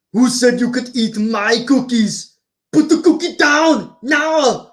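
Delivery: hammed-up Arnold; Arnold impression. On the phone in Jingle All the Way, slow Arnold demand. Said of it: "shall I do Arnold?".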